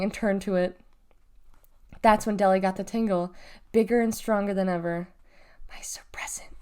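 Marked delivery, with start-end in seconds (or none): 5.7-6.5 hushed, awed whisper; breathed. A narrator's reading. Girl sees what is coming for her, breathed. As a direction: breathe it out very softly. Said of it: "she breathed".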